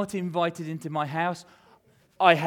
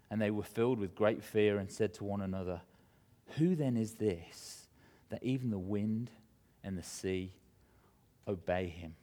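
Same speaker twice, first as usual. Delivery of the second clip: hushed awe; 8 semitones lower, 9 dB quieter than usual. A narrator's reading. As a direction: let the wonder sink to a hush. Awed disciples after the storm.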